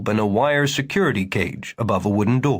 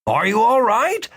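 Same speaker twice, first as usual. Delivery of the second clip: higher, louder worried doctor asking again; concerned doctor; 11 semitones higher, 4 dB louder than usual. Acted. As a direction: ask him again, more insistent. Doctor repeats the question.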